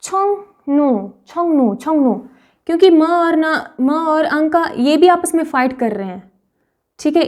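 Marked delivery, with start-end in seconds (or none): 0.0-2.1 छोंगनू with n in place of r, the first one drawn out; slow model of छोंगनू; correct pronunciation. Shown as a demonstration. Teacher drilling students, slow careful repetition. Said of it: "इसको हम पढ़ेंगे".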